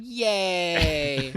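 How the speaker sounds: low, unenthused mock yay; badly faked delight; sarcastic cheer. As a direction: cheer with no joy at all. Sarcastic reply about computer lab.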